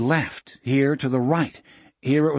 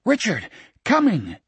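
calling out; 8 semitones higher than usual. A narrator's reading. Jack calls down to Richard.

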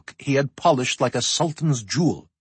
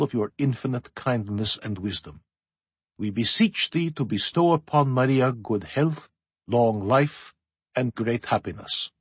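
prayer. A narrator's reading. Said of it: "as he intoned".

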